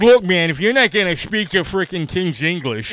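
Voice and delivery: mock Boston accent, telling someone off; vicious Boston accent. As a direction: put on a thick Boston accent. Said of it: "the most vicious Boston accent".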